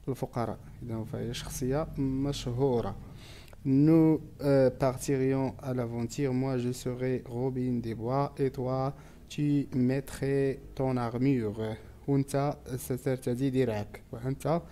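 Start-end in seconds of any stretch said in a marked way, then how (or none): 3.6-11.8 slow, careful French recitation; poem read aloud. Real, not acted. Teacher reading a poem to pupils, slow and measured. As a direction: read each verse slowly and deliberately for learners.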